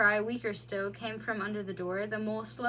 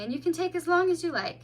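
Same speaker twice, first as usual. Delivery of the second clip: soothingly; 7 semitones higher, 5 dB louder, faster than usual. A narrator's reading. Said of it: "said the mole soothingly".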